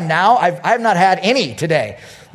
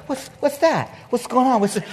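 higher-pitched, confused mumbling on waking; startled awake; 6 semitones higher than usual. Retold or imitated. Dog owner jolted out of sleep, startled and confused. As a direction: act out waking up alarmed and bewildered. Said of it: "you're coming out of sleep like".

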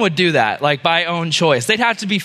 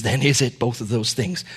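low, soft, mock-tearful plea; understated sorrowful old man; 9 semitones lower, 4 dB quieter than usual. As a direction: plead quietly, as if close to tears. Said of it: "with tears in his eyes".

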